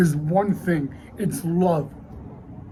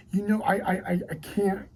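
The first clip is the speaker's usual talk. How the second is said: choked near-whisper, stammering; real upset, words barely getting out; emotional; 4 dB quieter than usual. Real, not acted. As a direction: falter softly, losing the voice. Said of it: "I apologize for getting emotional".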